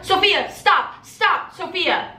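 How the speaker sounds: urgent restraint. Retold or imitated. Storyteller calling her sister back from a fight, urgent restraint. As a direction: call someone back, retold pleading.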